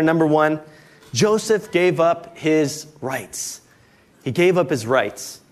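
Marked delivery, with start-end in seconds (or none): 1.1-3.6 very slow, each word spaced; dictated slowly. Shown as a demonstration. Pastor dictates the first point for notes, very slow. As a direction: read it slowly for note-taking. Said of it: "you can write in the first blank there".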